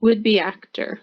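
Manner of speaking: "Would-be actor" with a short, light be; teacher model. Shown as a demonstration. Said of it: "it kinda goes like this when you're pronouncing it".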